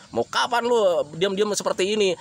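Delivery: mild reproachful nagging; impatient, needling question; pushy nagging. Shown as a demonstration. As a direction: scold them a little for staying idle. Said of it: "yang hadir itu emosi".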